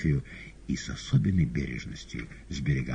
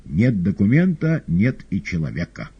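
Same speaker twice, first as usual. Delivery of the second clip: satisfied; 5 semitones higher, 6 dB louder than usual. Acted. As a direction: relish the point, pleased. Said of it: "удовлетворённо говорил Коровьев". (удовлетворённо, громче и выше)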